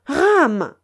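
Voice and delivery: loud, high barked command; forceful order. A narrator's reading. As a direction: crack it like a whip. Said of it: "Un juron énergique fouetta l'air".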